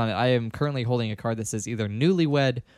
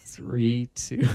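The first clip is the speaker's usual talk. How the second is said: whisper. Real, not acted. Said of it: "whispered countdown".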